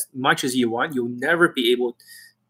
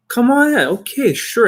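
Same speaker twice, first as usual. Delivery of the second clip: much higher, acted-out agreement; high-pitched acted quote; 9 semitones higher than usual. Coach acting out an invitation to his place, high-pitched. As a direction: act the exchange out in a high voice.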